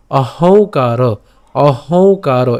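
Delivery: অহংকার very slow with a nasal ং; nasal pronunciation. Shown as a demonstration. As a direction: hum the ং through the nose. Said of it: "আমরা নাকে উচ্চারণ করব".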